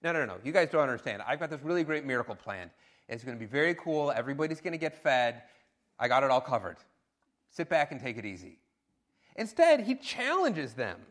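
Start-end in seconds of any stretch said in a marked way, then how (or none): 0.0-8.6 quick, casual, lightly voiced Jesus; a hint of a laid-back teacher reassuring his friends; breezy reassurance. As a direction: rattle it off like it's all handled. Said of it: "He could have said".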